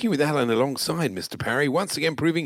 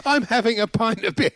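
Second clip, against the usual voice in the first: higher, hammed-up mimicry; mock excited shout; 8 semitones higher than usual. Host mimicking the marathon broadcast, mock excited shout. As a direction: imitate an over-excited live broadcaster.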